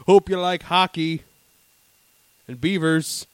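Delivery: loud, drawn-out Canadian mascot; Monty the Moose. Acted. A Canadian moose plugs hockey, slow hearty mascot voice. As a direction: boast slowly like a proud moose. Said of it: "Monty the Moose up there talking about it".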